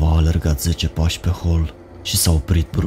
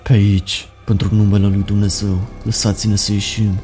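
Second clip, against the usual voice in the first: crying plea; 4 semitones higher than usual. Acted. Crying prisoner begging the rescuers, higher and tearful. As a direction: beg to be let out, weeping. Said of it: "a început din nou să plângă".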